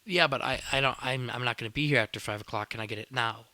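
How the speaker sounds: loud, pushy customer arguing back; insistent customer protest. Retold or imitated. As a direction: argue loudly, tripping over the first words. Acted argument with counter worker.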